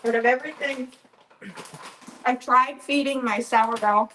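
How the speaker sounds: talking with a mouth full; words round a bite of food. Real, not acted. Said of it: "I'm talking with my mouth full".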